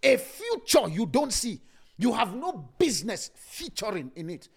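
each word of the line drawn out slowly; slow it right down so the church hears every word; said again very slow. Shown as a demonstration. Preacher repeating his line slowly for the congregation. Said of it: "Let me say it again very slow".

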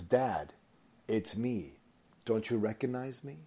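softly voiced daughter, retold; gentle reveal. Daughter reveals herself to her farmer father, gently.

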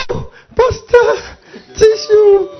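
high, slow, whiny mock flattery; mock fawning. Preacher mocking a church member fawning over the pastor. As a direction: simper while offering a tissue. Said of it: "you give pastor tissue".

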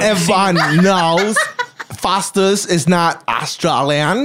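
slow, amused mock Australian; bad Australian accent. Correcting the fake Aussie, slow mock Australian accent. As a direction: put on a laboured Aussie accent. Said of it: "You sound like an alien".

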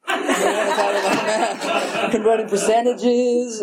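slow, chuckling through it; laughing. Real, not acted. Sharing at a meeting, amused at doing kid math, laughing. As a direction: laugh at yourself while saying it. Repeats line, then laughs it.

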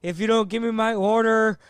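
mock angry threat. Customer threatening the drive-thru lady, heated. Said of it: "He goes".

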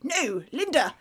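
halting, drawn-out public address, hammed up; Boris J. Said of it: "That's not a bad impression".

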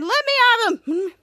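high, loud lunging cry; mock furious. Captain Man going for Frankini, mock furious yell. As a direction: act out straining to attack. Acted fight, held back from attacking.

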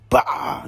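quick mock knockout sound; imitated punch impact. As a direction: voice the blow landing as a sound effect.

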